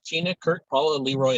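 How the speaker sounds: usual speaking voice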